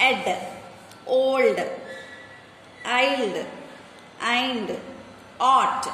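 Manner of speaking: put-on Ed, old, ild, eind, ought each blended, one at a time; isolated ending sounds. Shown as a demonstration. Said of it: "find some words of the following sounds". (Ed, old, ild, eind, ought శబ్దాలను ఒక్కొక్కటిగా పలకడం)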